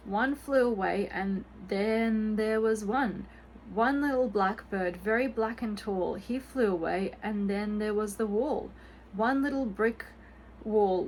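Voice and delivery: rhyme recital. A narrator's reading.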